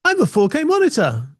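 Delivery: high, chirpy device voice; monitor introducing itself. Retold or imitated. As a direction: announce yourself like a proud little monitor. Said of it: "and the monitor says".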